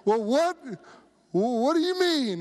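high, puzzled mock question; curious. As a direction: imitate a baffled, curious passenger. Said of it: "she was curious about that".

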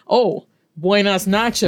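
clumsy tourist Spanish, hammed up; mock gringo Spanish. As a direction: butcher the Spanish like a clueless tourist. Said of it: "You sound ridiculous".

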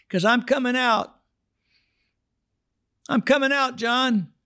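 mock high Fred voice; high-voiced Fred. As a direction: chirp it up high like the old man. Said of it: "now he doesn't talk like this".

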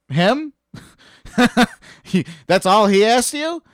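high, loud, laughing disbelief; retold incredulity. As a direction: imitate a friend scoffing in amazement. Retold friends' incredulous reaction.

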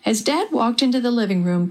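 ordinary delivery, nothing marked

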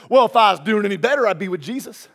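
light mocking Southern twang, quick start; southern redneck. Cheery churchgoer answering "how you doing", mock southern redneck. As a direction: poke fun with a hint of redneck accent. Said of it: "turn into a southern redneck".

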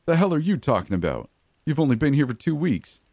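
can't believe what he's hearing; incredulous. Acted. Guard stunned by inmate's claim.

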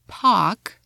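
pock with no R, British style; British park. Shown as a demonstration. A teacher showing the silent British R. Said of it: "in British".

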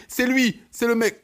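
high, excited "it's him"; smitten gush. Pretend. Listener mimicking a smitten girl, high and excited. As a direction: gush like you've found the one.

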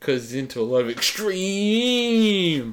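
laughing hard while talking. Real, not acted. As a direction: squeal it through laughter. Laughing through the bit.

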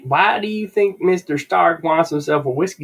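high-pitched put-on hick Southern accent, mocking. Co-host mocking the comic's dumb Tony, high hick Southern accent. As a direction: ham up a hillbilly Southern accent in protest. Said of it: "a hick Southern accent".

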